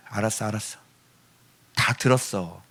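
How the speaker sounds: low, very soft acknowledgement; soft giving-in. Acted. God answers a child who cried five minutes, softly giving in. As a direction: hush it out with a resigned tenderness.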